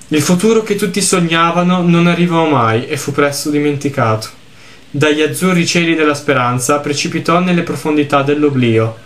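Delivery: lettura misurata di un racconto triste; narrazione letta. A narrator's reading. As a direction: leggi la storia con tono composto. Legge ad alta voce il testo del gioco. (narrazione composta, da racconto)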